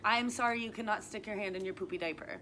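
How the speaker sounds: sorry through a laugh; mock-serious apology, half laughing; amused sympathy for a toddler.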